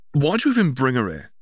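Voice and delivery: a touch of a sulky brother's anger; resentful demand. Acted. Younger brother confronts older brother about girlfriend, resentful.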